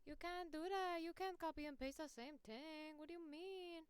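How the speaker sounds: high-pitched imitation of a scandalized objector; mock outrage. Host voicing shocked critics of copy-pasting, mock outrage. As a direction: pitch it up in hammed-up disbelief. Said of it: "it might sound crazy where it's like".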